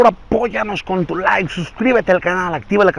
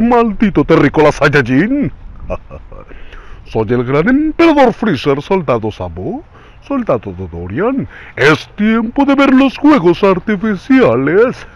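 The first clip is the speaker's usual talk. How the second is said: lightly voiced cartoon villain; smug evil emperor taunting; Freezer voice. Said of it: "La siguiente voz es Freezer".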